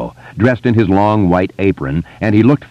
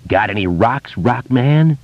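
raving taunt; 5 semitones higher, slower than usual. A narrator's reading. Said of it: "Henry raved".

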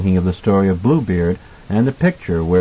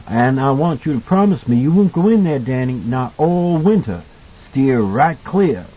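kindly cook warning; 2 semitones higher than usual. Acted. Voices Halloran warning Danny.

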